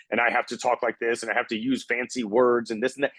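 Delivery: lightly mimicked stiff professional, pitch held even; overly professional. Coach imitating people who think they must sound professional, mock-formal. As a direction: put on a slightly formal, measured businesslike voice. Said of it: "they think that they have to be so professional".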